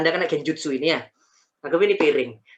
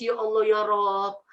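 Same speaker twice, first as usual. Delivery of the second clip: imitated tearful begging for forgiveness; retold tearful prayer; 4 semitones higher than usual. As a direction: re-enact weeping to God in remorse. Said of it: "saya langsung nangis".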